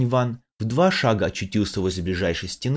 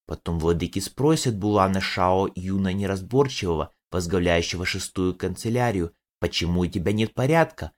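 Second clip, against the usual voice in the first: creaky tree demon. Acted. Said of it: "древо демон проскрипел".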